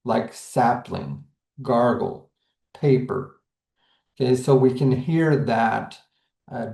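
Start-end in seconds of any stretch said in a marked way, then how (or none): 0.3-3.4 "sapling, gargle, paper", each stressed on its first syllable. Shown as a demonstration. Teacher showing trochees to students, stress on first syllable. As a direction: hit the front: SAP-ling, GAR-gle, PA-per. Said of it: "hear the stress at the first".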